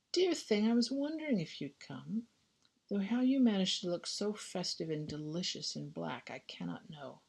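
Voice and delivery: a hint of a cooing society friend, sinking to a hush at the end; gushing society lady. Friend greets Clarissa at ball.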